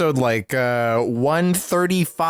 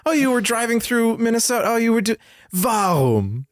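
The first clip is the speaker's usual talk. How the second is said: higher, mock-condescending clown voice; condescending Swiss clown; 6 semitones higher than usual. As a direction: talk down to them like a snooty clown. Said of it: "He's just really condescending".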